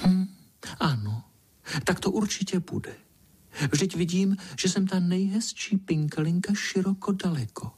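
preen over every word like a tiny princess; vain little ladybird dreaming. Acted. Pinkalinka daydreaming aloud.

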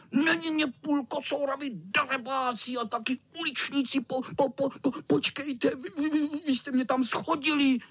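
vysoký kočičí hlas, zajíkavě vzteklý; rozčilený kocour. Acted. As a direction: koktat vztekem. (kocour vztekle obviňuje kluky)

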